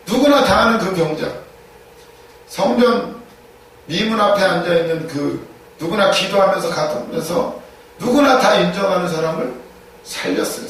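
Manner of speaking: ordinary talk, nothing marked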